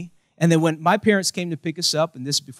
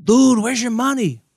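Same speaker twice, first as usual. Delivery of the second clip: higher mock demand for an answer; acted demand; 7 semitones higher, 3 dB louder than usual. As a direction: throw the question out in a raised put-on voice. Acted demand in pointing skit.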